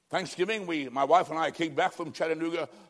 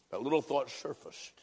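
softly whispered, drawing the listener close; 3 semitones lower, 5 dB quieter than usual. Acted. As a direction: let the thought slip out in a whisper. Intimate moment of the sermon.

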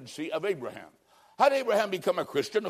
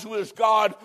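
shout; 4 semitones higher, 5 dB louder than usual. Acted. Shouted question.

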